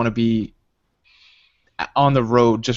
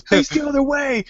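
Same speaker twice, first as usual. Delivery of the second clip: mock cop order. Friend orders player to turn.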